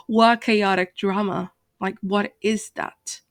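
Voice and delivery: slow, incredulous questioning; baffled challenge, dragging the words out; incredulous retort. Retold or imitated. Vlogger answering the chaotic drama accusation, incredulous.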